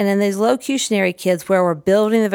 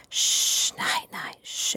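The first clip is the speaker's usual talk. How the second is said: hushed whisper, much softer; whispered shh; 8 dB quieter, much slower than usual. Shown as a demonstration. Putting the toy person to sleep, whispered. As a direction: breathe it out like a child is sleeping. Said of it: "And I whisper real low".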